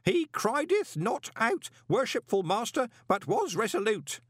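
high, proclaiming to hidden watchers; old postman announcing it formally to the master. A narrator's reading. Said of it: "raised his voice to add".

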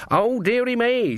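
high, drawn-out mock exclamation; thundered. A narrator's reading. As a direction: cry it out high and slow. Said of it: "she thundered".

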